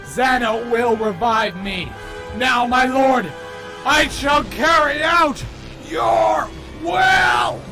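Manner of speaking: loud, rising zealot cry; fanatic shout. Acted. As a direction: proclaim it like a devoted cultist. Fanatic pledging to his lord.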